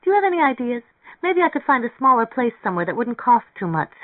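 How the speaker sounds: lively, insistent woman character; energetic. A narrator's reading. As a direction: speak up with eager energy. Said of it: "said energetically".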